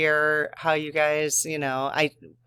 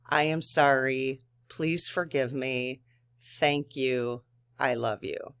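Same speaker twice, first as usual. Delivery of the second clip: gentle prayer. Shown as a demonstration. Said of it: "you could say that to Mother Earth".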